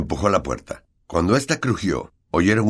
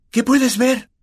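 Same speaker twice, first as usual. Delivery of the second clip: anxious; 5 dB louder, slower than usual. A narrator's reading. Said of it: "con ansiedad".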